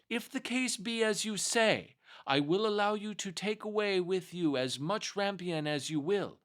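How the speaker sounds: a witch naming her price; enchantress voice. Acted.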